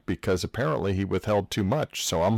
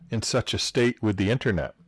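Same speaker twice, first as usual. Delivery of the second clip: whisper. Pretend. Mock secretive aside.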